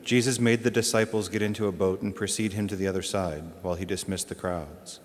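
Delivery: measured, formal scripture reading; gospel reading. Acted. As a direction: read the Gospel aloud to the congregation, steady and solemn.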